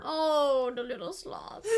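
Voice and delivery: high, cutesy aww; cooing pity. Real, not acted. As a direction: coo over a tiny animal. Cooing pity over slow mossy sloths.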